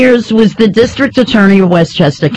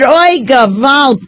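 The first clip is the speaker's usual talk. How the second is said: mock Kissinger accent; 5 semitones higher than usual. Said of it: "I can't do his accent".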